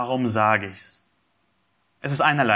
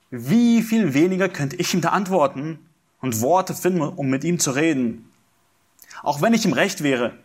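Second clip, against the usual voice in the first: higher, pleading voice of suffering Job; Job's lament; 5 semitones higher than usual. Acted. Preacher voicing Job's complaint to the congregation, pleading. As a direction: plead upward as a man who cannot reach God.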